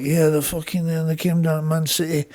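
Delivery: soft stoned rambling, imitated; lightly voiced stoner, slightly subdued; a singer. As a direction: ramble on like someone stoned, trailing into blah. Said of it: "He would just get stoned and start talking".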